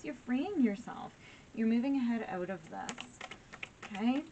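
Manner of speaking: pushing through real emotion; getting emotional. Real, not acted. Tarot reader telling Gemini viewers they're free, emotional. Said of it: "I'm getting a little emotional here".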